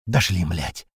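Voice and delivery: a touch of exhausted relief; relieved. A narrator's reading. Kotleta sinks to the floor, mildly relieved. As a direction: breathe it out, relieved. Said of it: "с облегчением говорит котлета".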